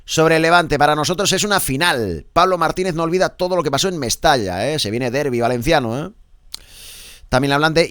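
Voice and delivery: punchy radio sports bulletin; lifted, emphatic press-review announcer; sports headline read. Acted. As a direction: project the headlines like a sports presenter.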